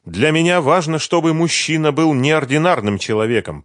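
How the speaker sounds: put-on eager young woman recalling Kiev; Sveta's voice. A narrator's reading. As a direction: chatter it brightly as Sveta. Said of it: "продолжала Света".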